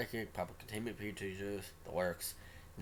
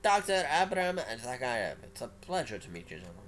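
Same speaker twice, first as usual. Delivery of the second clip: different voice for Zakayev; 3 semitones higher, 6 dB louder than usual. Acted. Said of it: "relatively different voice for, uh, Abraham Zakayev".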